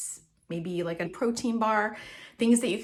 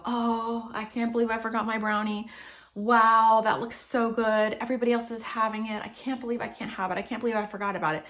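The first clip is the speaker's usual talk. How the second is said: fast, fretful complaining to yourself; panicked self-talk. Shown as a demonstration. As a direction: let the worry speed you up. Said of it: "did you notice the change in my tone of voice, in my pace".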